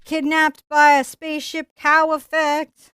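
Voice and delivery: slow emphatic excited list. Real, not acted. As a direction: sell each effect grandly. Enthusiastic list of effects.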